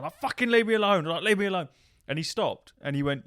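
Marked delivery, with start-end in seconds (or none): 0.2-1.0 high, loud panicked yell; mock scream to fend off an attacker; retold screaming. Player screaming in proximity chat at his attacker, panicked shout. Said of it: "I'm screaming in the proximity chat". 1.2-1.7 high-pitched mock panicked shout; retold screaming. Player screaming in proximity chat at his attacker, high yell. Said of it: "I'm screaming in the proximity chat".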